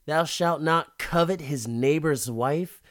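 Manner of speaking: sanctimonious sneer; preachy villain. Retold or imitated. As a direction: scold him while holding him up. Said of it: "he's like".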